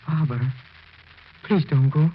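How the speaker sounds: high, loud frantic pleading; desperate plea. Acted. Husband pleading with his fading wife's ghost, high and frantic. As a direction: beg her not to go.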